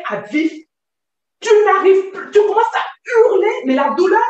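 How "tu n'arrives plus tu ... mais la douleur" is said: real outburst of remembered pain; raised voice in pain. Real, not acted. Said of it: "quand je parle fort".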